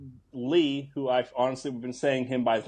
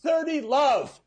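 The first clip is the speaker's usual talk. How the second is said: high, louder triumphant call; tennis player; 12 semitones higher, 4 dB louder, slower than usual. Acted. Tennis star batting away bullets, gleeful score call. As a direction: call the score out mid-battle. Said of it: "he goes".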